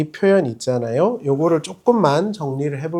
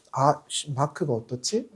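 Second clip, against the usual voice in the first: muttered mock thought; 5 semitones lower, 11 dB quieter than usual. Imitating car shopper.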